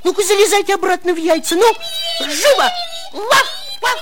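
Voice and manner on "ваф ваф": sharp high woof; dog bark. Acted. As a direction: bark at the chicks. Dog barks at chicks.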